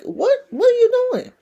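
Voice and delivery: mock outrage at her fuss, high and quick; God scolding. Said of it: "And he was like".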